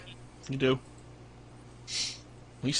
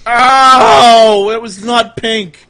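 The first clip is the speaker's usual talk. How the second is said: yelp; 8 semitones higher, 13 dB louder, much slower than usual. Acted. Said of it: "You go".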